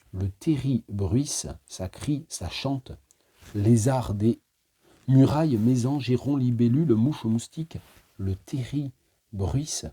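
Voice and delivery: slow, measured recitation with long pauses; poem reading. Acted. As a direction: read it like a litany. Reads the slag-heap poem. (lecture de poème lente et scandée)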